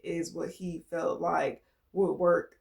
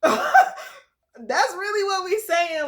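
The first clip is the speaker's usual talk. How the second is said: slow, louder words through laughter; laughing; 10 semitones higher, 7 dB louder, much slower than usual. Real, not acted. Reader laughing at her own point, slow and louder.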